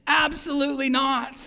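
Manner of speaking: ringing emphatic no from the pulpit; emphatic refusal. Retold or imitated. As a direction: reject it firmly, word by word. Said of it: "And emphatically".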